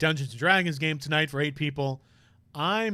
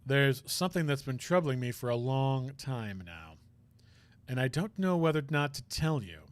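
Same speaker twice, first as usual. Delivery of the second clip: low, soft, hesitant whispering voice; a pained man confessing quietly; troubled prosecutor; 3 semitones lower, 6 dB quieter than usual. Acted.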